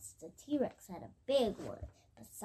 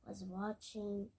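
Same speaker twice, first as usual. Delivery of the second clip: soft trailing whisper; 4 semitones lower, 11 dB quieter than usual. Real, not acted. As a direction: whisper the ending. Child whispers end of sentence.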